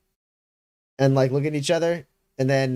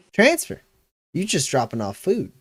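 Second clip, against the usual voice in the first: incredulous soldier. Acted.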